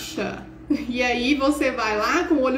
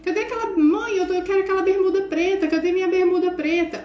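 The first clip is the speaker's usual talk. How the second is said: put-on raised, pleading kid's voice calling "mãe"; a son shouting for his missing shorts, higher and whiny; whiny son calling mum; 5 semitones higher than usual. Son calling his mother from the bedroom, whiny and raised.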